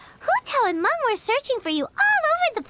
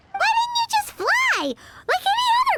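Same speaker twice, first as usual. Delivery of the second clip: incredulous; 12 semitones higher than usual. Acted. Incredulous question to the ghost.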